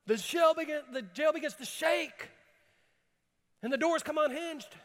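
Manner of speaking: high, loud, fervent preaching; full-force preaching. Acted. Pastor preaching to the congregation, fervent and loud. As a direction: preach it out with rising fire.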